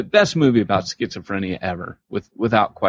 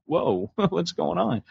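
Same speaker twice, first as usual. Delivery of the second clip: startled laugh; 8 semitones higher, 5 dB quieter, slower than usual. Retold or imitated. Imitating startled patient.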